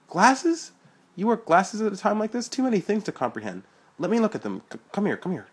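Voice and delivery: high, loud excited shouting; excited yelling. Acted. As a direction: yell it out in amazement. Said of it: "Sean was yelling".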